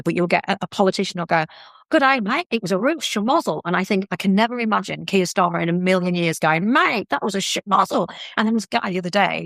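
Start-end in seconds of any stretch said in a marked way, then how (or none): 1.9-3.6 higher-pitched mock Australian politician; Australian accent. Woman imitating an Australian politician on TV, Australian accent. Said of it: "do the accent and whatever". 6.7-8.1 mock Aussie accent, pitched up; Australian accent. Imagining Keir Starmer talking like an Aussie politician, Australian accent. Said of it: "do the accent and whatever".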